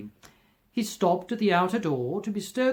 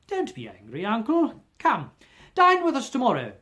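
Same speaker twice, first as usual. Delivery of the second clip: pleading nephew; 7 semitones higher, 5 dB louder than usual. Acted. Nephew invites uncle.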